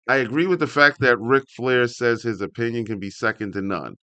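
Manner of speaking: ordinary talk, nothing marked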